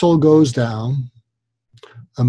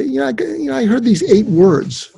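tentative, casual offer; 9 semitones higher than usual. Shown as a demonstration. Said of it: "when you do it that way".

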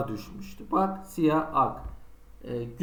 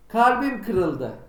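slow, mock-dramatic sigh of a line; heartbroken; 4 semitones higher, 4 dB louder, much slower than usual. Teacher hamming up an example sentence for students, mock heartbroken. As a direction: overplay a broken heart, slowly. Acting out a mecaz anlam example.

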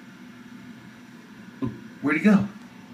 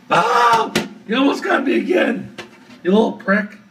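startled yelp; 5 semitones higher than usual. Real, not acted. Spider lunges at her.

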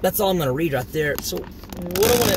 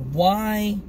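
1 calm rebuke; slower than usual. Acted. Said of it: "said to them".

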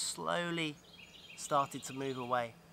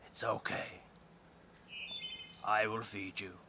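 low, soft breathy whisper from the ground; the earth whispering to the crying girl, low and soft; 7 semitones lower, 8 dB quieter than usual. Acted. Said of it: "From the earth came a voice".

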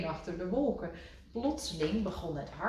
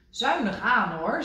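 a touch of stern warning; firmly ration the food; 5 semitones higher, 7 dB louder than usual. A narrator's reading. Rad warning Kikker to save bread, mildly stern. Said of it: "zei hij streng".

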